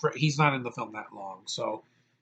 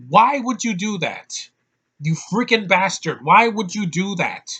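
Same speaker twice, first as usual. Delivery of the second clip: higher, louder, drawn-out exasperated demand; mock outrage; 5 semitones higher, 6 dB louder than usual. Reviewer scolding a movie character who abandoned his girlfriend, outraged. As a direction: berate him in exaggerated disbelief.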